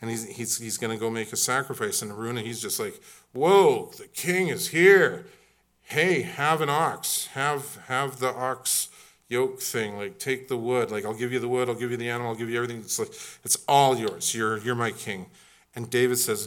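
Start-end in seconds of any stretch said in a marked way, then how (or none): 3.3-15.2 awestruck eager subject. Acted. Araunah excited, acted.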